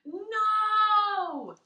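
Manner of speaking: high, loud horrified "No!"; a real shocked outcry, high and loud; horrified cry. Real, not acted. Reader's horrified outburst.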